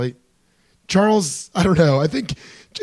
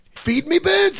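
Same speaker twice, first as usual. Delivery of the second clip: higher villain voice; Niles voice; 13 semitones higher, slower than usual. Retold or imitated. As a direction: bark orders like the villain. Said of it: "he said".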